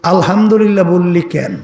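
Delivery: mild retold rebuke with pointed questions; understated mock telling-off; angry scolding. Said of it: "নবী রাগ হইয়া ধমকে সুরে বলতেছে".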